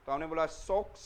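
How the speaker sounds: सोक्स with the O drawn long and open; सोक्स said with a broad, long O. Shown as a demonstration. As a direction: stretch the O in सोक्स. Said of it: "ओ को आपको थोड़ा बड़ा बोलना है".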